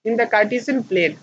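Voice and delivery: reading a definition aloud very slowly for students to copy; teacher dictating notes at a crawl; slow dictation. Shown as a demonstration. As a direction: dictate it word by word, spacing each phrase. Dictates textbook line.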